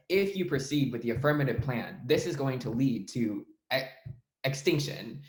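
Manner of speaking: weighty pause before "extinction"; emphasis on key words. Shown as a demonstration. Coach demonstrating how to emphasize an important claim, deliberate stress on "extinction". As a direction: set "extinction" apart and stress it. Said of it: "that's something that you wanna emphasize".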